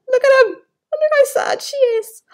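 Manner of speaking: high, loud outburst of delight; excited cry. Real, not acted. Parent to child over the storybook, an excited high cry.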